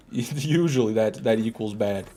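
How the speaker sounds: repeating the word through a laugh; laughing repeat of "Usually" with a falling tune; laughing echo. Shown as a demonstration. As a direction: echo it with a chuckle.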